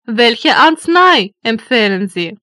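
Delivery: ordinary talk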